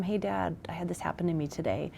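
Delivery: whispered, hurried confession; whispered confiding. Retold or imitated. Teenager confiding to parent at bedtime, whispering.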